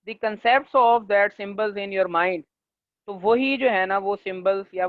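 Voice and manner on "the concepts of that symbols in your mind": very slow, word by word, for note-taking; slow dictation. Shown as a demonstration. Teacher dictating a definition to students, very slow. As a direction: read it out slowly so they can write.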